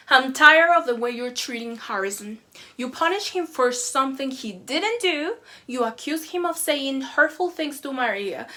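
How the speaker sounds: loud furious complaint; angry parent screaming. Retold or imitated. Parent confronting the teacher, yelling in anger. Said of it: "The parent screams".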